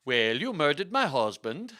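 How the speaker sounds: loud, hammy Swedish accusation; Swedish-accented lady, mock screech. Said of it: "screeched Lady Anne".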